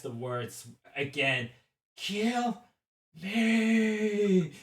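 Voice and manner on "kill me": high, drawn-out creature cry; monstrous roar. Acted. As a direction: roar the words out slowly. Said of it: "You hear this roar again".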